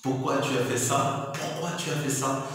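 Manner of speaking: a parent's indignant why, acted lightly; parent scolding. Parent scolding a child for a mistake, indignant. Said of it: "on te pose la question".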